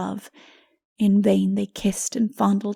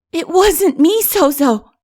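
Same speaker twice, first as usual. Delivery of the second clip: sobbing; 8 semitones higher, 8 dB louder, slower than usual. Acted. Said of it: "he sobbed".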